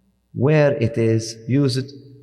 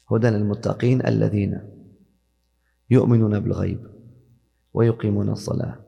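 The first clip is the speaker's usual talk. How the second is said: steady recitation of the verses; Quran recitation; 2 semitones lower, much faster than usual. Shown as a demonstration. Teacher recites Quran passage.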